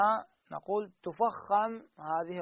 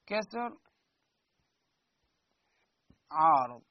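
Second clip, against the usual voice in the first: slow, measured chant with long pauses; reciting a rule verse; slower than usual. Shown as a demonstration. Teacher recites the tajweed rule slowly to the class. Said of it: "يقول".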